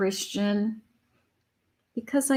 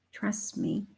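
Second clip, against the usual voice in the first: breathy whisper of "Trust me"; 9 dB quieter than usual. Acted. Spirit repeats it to the room in a whisper. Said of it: "Spirit is saying".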